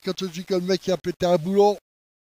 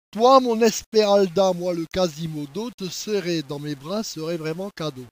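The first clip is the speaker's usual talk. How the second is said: poem recitation. Acted. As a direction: declaim a love poem, easing down after the address. Reads the poem aloud. (poème d'amour déclamé, début lent)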